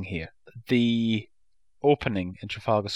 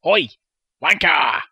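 a retold shout in Paul's ear; half-shouted playground insult; mock shout; 4 semitones higher, 7 dB louder than usual. Podcaster retelling a baddie shouting in Paul's ear, mock shout. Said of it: "he's shouting in Paul's ear".

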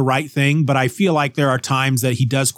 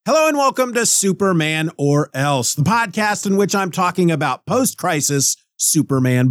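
podcast intro read; 4 semitones higher than usual. Shown as a demonstration. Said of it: "not taking a big enough breath".

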